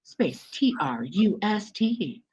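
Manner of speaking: like a recorded elevator announcement. Shown as a demonstration. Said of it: "I'll put on my elevator voice".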